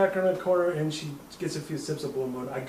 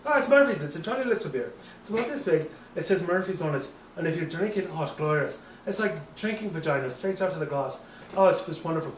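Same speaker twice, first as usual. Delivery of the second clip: tipsy, lilting attempt at an Irish accent. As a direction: gush about it in a mock Irish brogue. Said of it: "we're both doing Irish accents".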